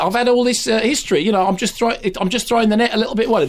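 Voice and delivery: hammed-up Northern Irish accent, pitched well up; a mock Northern Irish lad who sounds Australian; the speaker's Northern Irish accent. Mocking the actor's Northern Irish accent for his co-host. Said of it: "That was him doing Northern Irish".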